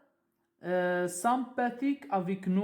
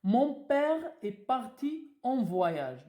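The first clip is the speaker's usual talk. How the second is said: mon père est parti en voyage said slowly; slow dictation; 4 semitones higher, slower than usual. Shown as a demonstration. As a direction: dictate the sentence slowly to pupils. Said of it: "Donc, euh".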